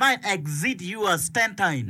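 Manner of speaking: slightly drawn-out, insistent boast of suffering; one-upping sufferer. Acted. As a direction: act out topping someone's troubles, slowly. Acted contest over whose trouble is worse.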